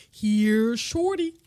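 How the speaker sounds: a mock gruff "Here, shorty" with the first word punched loud; repeating Shorty's line. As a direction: echo the old man's line for laughs. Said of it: "Shorty's sending me, do it again".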